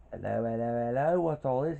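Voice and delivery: put-on light British bobby accent on the catchphrase. Robot constable Bickles greeting, in a mild British accent. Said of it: "He's got a British accent, that's what I'm doing now".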